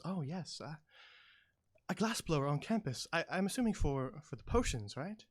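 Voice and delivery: a hint of an eager little gnome; gnomish woman, curious. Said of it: "she goes".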